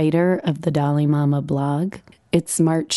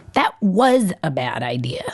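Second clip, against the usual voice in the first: put-on cross child. A narrator's reading. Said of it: "she says crossly".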